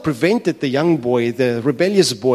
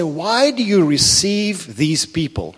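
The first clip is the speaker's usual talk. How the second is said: moaning Pharisees; 4 semitones higher, 4 dB louder, slower than usual. Acted. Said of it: "they're moaning. They say".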